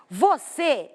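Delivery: Você, with CÊ as the strong syllable; stress on last syllable. Shown as a demonstration. Teacher shows students the third word, stressing CÊ in Você. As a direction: say Você leaning on the final CÊ. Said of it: "A minha mais forte já é a última".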